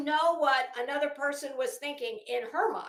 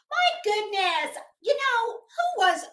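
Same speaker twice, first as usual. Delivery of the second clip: mock forgetful; 8 semitones higher, 4 dB louder, slower than usual. Feigning not to remember herself.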